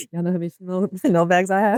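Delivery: laughing through the words, amused. Real, not acted. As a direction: chuckle as you ask. Wife laughing at gift story.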